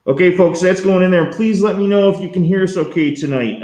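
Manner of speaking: muffled behind a mask; talking through a face mask. Real, not acted. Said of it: "mumbling behind the masks".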